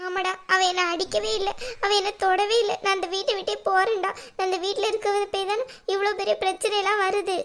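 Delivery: weepy martyr's concession; tearful sarcasm. Acted. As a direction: agree bitterly, as the crying wronged mother. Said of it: "நீங்க அழாதீங்கம்மா".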